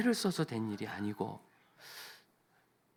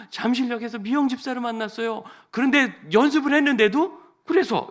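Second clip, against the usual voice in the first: higher, louder wife's news with "미영" lifted high; excited retelling; 13 semitones higher, 11 dB louder than usual. Shown as a demonstration. The wife eagerly tells her husband whom she met, loud and high. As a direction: blurt it out eagerly, "미영" rising high. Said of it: "정말 그럴 날이 왔어요".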